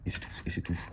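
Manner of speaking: whispered, trailing off in disappointment; resigned whisper. Real, not acted. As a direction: murmur it to yourself, deflated. Another letter comes up empty.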